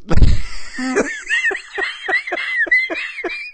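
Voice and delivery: helpless shrieking laughter; laughing until out of breath; high breathless laughing fit. Real, not acted. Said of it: "let me catch my breath".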